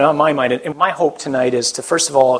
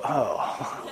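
dismayed oh; 3 semitones lower, 10 dB quieter than usual. Retold or imitated. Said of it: "I look out and I go".

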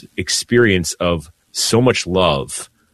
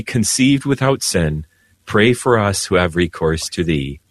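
steady liturgical prayer recitation; recited prayer; 3 semitones higher than usual. Acted. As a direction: lead the collect like a priest at the altar. Priest leads closing prayer on air.

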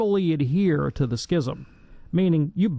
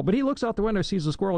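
ordinary delivery

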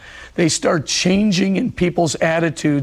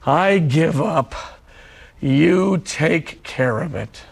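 surrendering prayer; slower than usual. Shown as a demonstration. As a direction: pray it slowly, letting go. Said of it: "the prayer just simply goes like this".

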